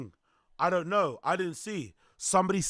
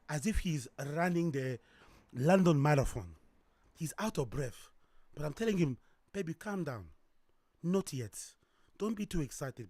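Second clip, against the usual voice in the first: hushed; 2 semitones lower, 6 dB quieter than usual. Acted. Reads a sexy story aloud.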